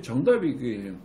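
ordinary delivery

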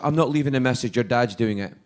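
lightly imitated Scottish mum; mum's Scottish accent. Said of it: "very thick Scottish accent".

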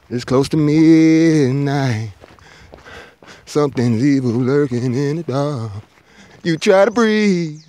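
very slow, drawn-out creepy narration; mock horror-movie voice, slowing right down; spooky horror narrator. Reciting a song's spooky intro.

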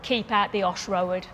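Black Country "Keep out the Osh Road", demonstrated; Black Country goodbye with two-syllable "Road"; Black Country dialect. Shown as a demonstration. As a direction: repeat it in a Black Country accent. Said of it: "It's Black Country for mind how you go".

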